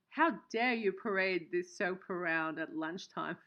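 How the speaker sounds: hammed-up how dare you to a joking viewer; mock outrage. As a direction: tease the viewer as if truly offended. Joking at viewer Down Under Pharaoh.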